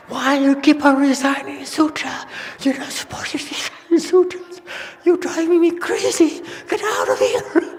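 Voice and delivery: high, loud screaming at the neighbor; furious yell. Retold or imitated. Fed-up monk yelling at his chanting neighbor, screaming high. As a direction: shriek it, fed up and losing it. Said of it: "started beating on the partition between them and said".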